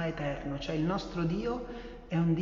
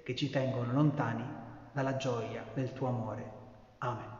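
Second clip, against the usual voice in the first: solemn prayer; 4 dB louder than usual. Acted. Priest asks the Lord's forgiveness for everyone, earnest and solemn. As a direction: ask forgiveness gently and steadily.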